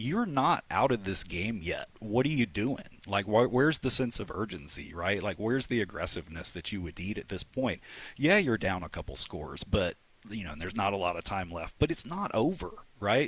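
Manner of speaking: ordinary delivery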